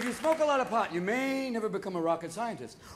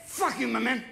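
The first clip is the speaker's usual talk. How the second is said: hint of a bar-room drunk picking a fight; mock-aggressive drunk; belligerent drunk; 4 semitones higher than usual. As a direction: act mildly drunk and confrontational. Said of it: "Alcohol changes your mood sometimes".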